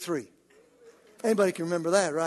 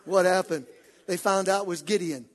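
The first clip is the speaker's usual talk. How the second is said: ordinary talk, nothing marked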